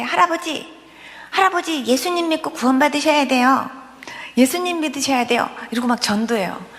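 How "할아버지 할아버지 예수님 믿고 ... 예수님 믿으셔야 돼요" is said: put-on higher, eager little-child pleading. Child urging grandfather on the phone to believe, higher child voice.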